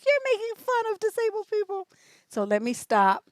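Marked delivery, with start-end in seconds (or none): 0.0-1.9 high-pitched mimicked complaint; put-on voice of upset critics; mock upset people. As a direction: imitate offended objectors in a high voice. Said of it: "people would be upset and they're like".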